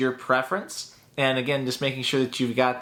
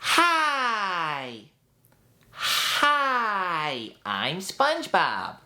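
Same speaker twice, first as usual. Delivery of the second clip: high start, slower, sliding the words down; SpongeBob voice; 5 semitones higher, much slower than usual. Shown as a demonstration. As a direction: start high then push it down. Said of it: "pushing the words down".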